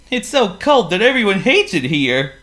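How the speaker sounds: high, loud squeaky penguin; a gloomy little penguin sighs. A narrator's reading. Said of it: "replied Waldo".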